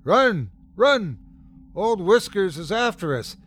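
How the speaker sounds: high panicked shout; boy shouting. A narrator's reading. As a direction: yell it out in a cracking boy voice. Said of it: "one of the demons shouted".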